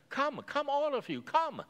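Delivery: woman calling the whole village, high and loud; excited high call. Acted. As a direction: summon everyone from afar.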